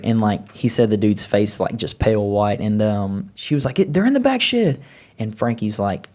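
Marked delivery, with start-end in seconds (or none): 3.8-4.8 put-on young girl voice. Daughter again.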